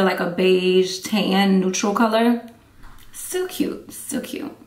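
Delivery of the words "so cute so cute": soft unvoiced whisper. Real, not acted. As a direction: breathe it out, barely a sound.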